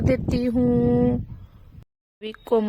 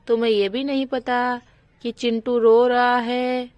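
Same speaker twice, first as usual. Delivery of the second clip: louder, reproachful scolding; 5 dB louder than usual. Acted. Sheela scolding Komal for sleeping through baby's crying, louder reproach. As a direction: tell her off for oversleeping.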